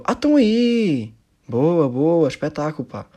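imitating the comedian. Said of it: "E eu".

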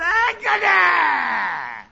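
high, loud hammed-up yell; mock angry shout. Teacher ends the angry parody with a high mock yell. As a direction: blurt it out like a cartoon hothead.

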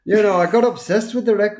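high, loud mock Scottish accent; loud playful Scottish accent. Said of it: "I can bring it back".

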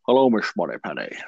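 a faint, lightly voiced Scottish Bond accent; barely a hint of a Scottish Connery impression; terrible Sean Connery. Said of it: "My terrible Sean".

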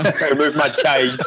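slow, laughing through the words. Real, not acted. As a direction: chuckle out the quote slowly. Repeats joke quote while laughing.

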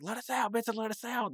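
mock desperate call for help; retold pleading cry. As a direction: call out in a high voice as if trapped behind a door. Trapped, pounding on door, calling out.

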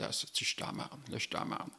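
whispered panic to himself; inner thought. Retold or imitated. Man thinking he is in trouble, frightened whisper. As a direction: breathe it out, scared, under his breath.

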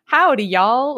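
lightly voiced Southern twang; cowboy voice. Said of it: "I can hear her Four Kids voice".

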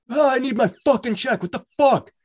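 squeaky high mocking voice of a raging man; mock angry caller. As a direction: mimic him shrieking about his check up in a silly high pitch. Imitating angry caller's reply.

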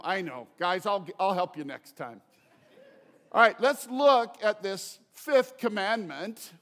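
ordinary talk

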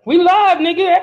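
real, slightly yelled retort; yelling. Real, not acted. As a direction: snap it back at your co-host. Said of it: "Don't yell at me".

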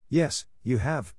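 lightly cheerful, drawing out each word. A narrator's reading. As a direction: gently contradict a child with good cheer.

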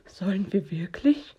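worried half-whisper, rising; hesitant, fretful questioning; nervous little friend having doubts; anxious whisper. A narrator's reading. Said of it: "wispert Hox".

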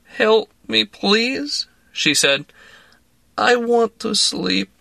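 tipsy Russian woman urging a drink; Russian accent. A narrator's reading. Woman pressing vodka on narrator, in a Russian accent. Tearful Larissa.

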